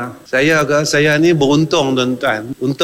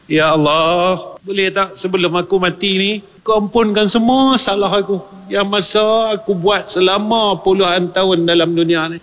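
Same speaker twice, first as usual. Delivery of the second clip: pleading prayer; 5 semitones higher than usual. Acted. Voicing a sinner's prayer.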